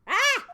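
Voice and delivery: short, loud, high yelp; startled shriek. Acted. Character at the crime scene is startled, yelping sharply. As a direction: yelp as if jumped at.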